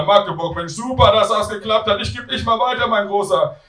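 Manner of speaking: high-pitched congratulating mum; delighted mother. Acted. Mother congratulating her son on the phone, high voice. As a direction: lift the voice high and praise him.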